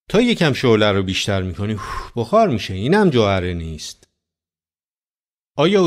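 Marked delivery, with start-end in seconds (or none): 1.7-2.1 whooshing puff of vapour; imitated puff of steam. Preacher shows it boiling away, imitated whoosh. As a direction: blow it out like escaping steam.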